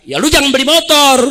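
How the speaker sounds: hammed-up careless official; mock dismissive official. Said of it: "Apa dijawab pejabat".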